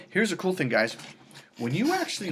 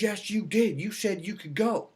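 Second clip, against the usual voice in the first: put-on higher, insistent boyfriend; mock boyfriend insisting; 7 semitones higher than usual. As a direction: insist back, voice pitched up. Retold couple quarrel.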